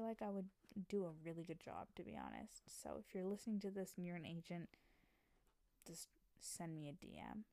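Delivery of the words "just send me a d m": soft whispered aside; playful whisper. Real, not acted. Joking to listening agents, a soft whisper. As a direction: slip it in like a secret.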